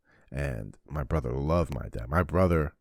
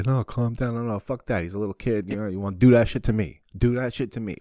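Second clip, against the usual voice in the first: raised, higher voice squaring up to bullies; mock brother confrontation; 5 semitones higher, 4 dB louder than usual. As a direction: play the big brother getting in their face. Brother confronting the older kids.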